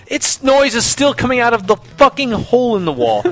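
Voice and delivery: high, exasperated mild mock yell; retold yelling. Customer to repairman on the phone, high mock yell. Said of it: "I yell at him long enough".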